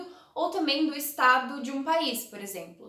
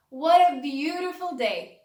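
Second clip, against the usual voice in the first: delighted exclaim; 6 dB louder, slower than usual. Shown as a demonstration. Teacher acting out example sentence.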